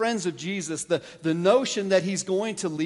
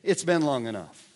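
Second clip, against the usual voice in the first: insistent widow's demand; 4 semitones higher, 5 dB louder than usual. Retold or imitated. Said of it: "she's coming to the judge saying".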